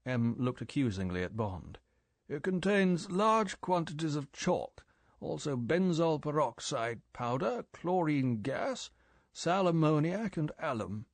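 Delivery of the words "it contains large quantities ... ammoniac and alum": put-on severe old chief lecturing, higher; raised, lecturing boss voice. M lecturing Bond.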